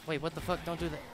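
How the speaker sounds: normal talking voice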